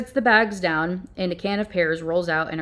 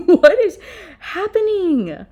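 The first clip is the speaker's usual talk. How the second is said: higher, louder, slow and laughing; laughing disbelief; 12 semitones higher, 9 dB louder, slower than usual. Real, not acted. Reviewer baffled by the story, laughing loudly. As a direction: laugh through the words in disbelief. Reacting to absurd plot.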